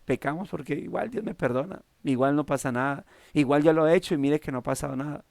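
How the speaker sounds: mock careless voice of a cynical believer; careless sinner's excuse. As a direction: shrug it off like nothing matters. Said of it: "nos lleve a decir".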